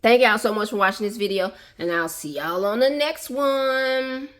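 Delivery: put-on playful Southern accent on the sign-off; a put-on Southern twang saying goodbye; mock Southern drawl. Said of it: "now for real though".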